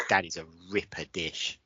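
low, soft mock-Aussie judge; Australian judge. Imitating a MasterChef judge praising food, low Australian accent. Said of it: "One of the judges".

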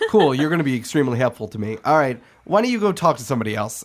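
fast, laughing sarcasm; sarcastic cook. Acted. Line cook sarcastically brushing off the robot, fast. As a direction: brush him off quickly with a laugh.

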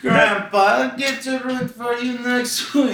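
put-on high, slow, laughing old-man voice; mock old man. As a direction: tease like a creaky grandpa.

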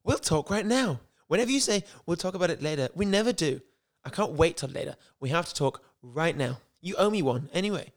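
amateur Queen's English, high at first then settling; drifting Queen's English. Acted. Lisa insisting Mark talk now, put-on Queen's English accent. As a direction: start high in mock Queen's English, let it sag. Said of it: "started Queen's English and ended up".

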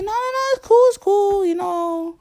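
a light high put-on voice for the friend; lightly voiced carefree friend; mock friend brushing it off. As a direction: play the friend breezily waving it off.

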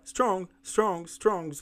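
"Strong" as one single syllable; each "Strong" out in one burst; all in one go. Shown as a demonstration. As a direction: repeat "Strong" whole each time, never split. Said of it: "Sai de uma vez, fala de uma vez".

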